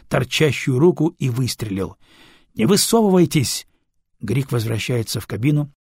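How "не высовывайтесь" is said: shouting. Acted. Warning crew under gunfire.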